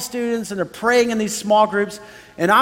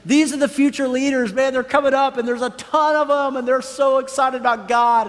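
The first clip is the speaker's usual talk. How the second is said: higher-pitched excited inner voice; recalled thrill, voiced high; excited proud thought; 6 semitones higher than usual. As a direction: marvel at the future leaders, pitched up. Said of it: "and I'm excited".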